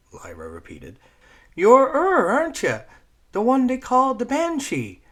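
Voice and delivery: put-on high, loud excitable kid rattling on; eager little girl who won't stop talking; chatty Newfoundland girl. Voicing Squeak.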